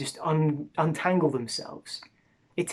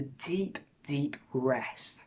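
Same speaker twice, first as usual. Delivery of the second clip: whispered; 6 dB quieter, much slower than usual. Acted. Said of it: "soft invitation".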